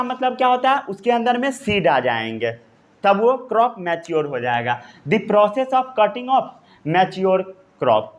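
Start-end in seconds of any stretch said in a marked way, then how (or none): 5.1-8.1 very slow, word by word for note-taking; slow dictation. Shown as a demonstration. Teacher dictating a note to the class, very slow. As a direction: spell it out slowly so students can write. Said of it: "इतना note down कर लिए?".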